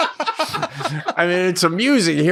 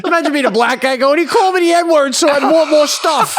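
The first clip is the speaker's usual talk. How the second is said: high, loud, laughing all through; amused disbelief, laughing; 12 semitones higher, 4 dB louder than usual. Real, not acted. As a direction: push the absurdity while laughing. Hypothetical absurd scene, laughing.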